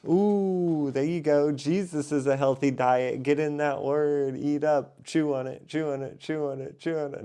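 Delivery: high, loud hyped-up preaching; excited. Real, not acted. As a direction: pump it up like a hype preacher. Excited preaching after scripture.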